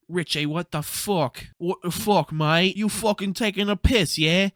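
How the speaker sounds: loud, furious mocked shout down the phone; mock her yelling in a British voice; angry yelling. A mother yelling at her son on the phone, loud mock fury.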